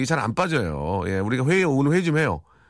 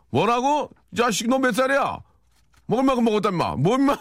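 mock quarrel; 11 semitones higher than usual. Retold bus quarrel, shouted.

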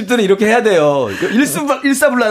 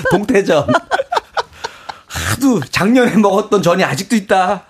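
mock drama-hero outburst; Park Shin-yang impression. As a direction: lightly imitate a tough TV drama lead. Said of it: "파리의 여인, 네, 스타일로 해달라고".

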